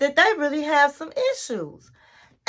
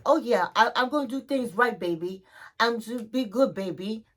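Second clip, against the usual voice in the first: softer, quick mumbled sweet talk, lightly imitated; sweet-talking man; 2 semitones lower, 5 dB quieter than usual. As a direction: imitate a man sheepishly promising his partner. Retold Michael sweet-talking Liz.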